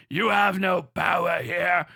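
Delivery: slow, grave wizard-like pronouncement, lightly voiced; mock wizard rebuke. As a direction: intone it like a stern old wizard. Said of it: "going to fucking Grima Wormtongue and going like".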